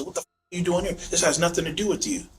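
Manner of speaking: son's retort. Retold or imitated. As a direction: pitch it up to play the defiant son.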